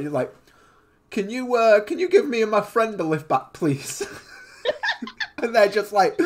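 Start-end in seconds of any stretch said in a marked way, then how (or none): 1.1-4.1 higher, louder pretend plea with a laugh; amused mock-polite request; sheepish hitchhiker. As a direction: play-act awkwardly asking a stranger for a lift. Acts out asking stranger for lift.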